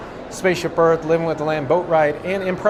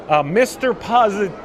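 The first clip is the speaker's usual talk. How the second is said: coughing up water. Real, not acted. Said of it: "The water went down the wrong pipe".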